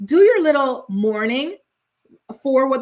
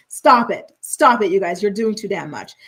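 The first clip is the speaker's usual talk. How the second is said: laughing exasperation; 2 semitones lower, 4 dB louder than usual. Real, not acted. Scolding cast members, laughing.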